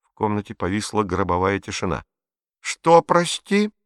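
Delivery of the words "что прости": slow icy hiss. A narrator's reading. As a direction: grind the words out coldly. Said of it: "процедил фюрер ледяным тоном".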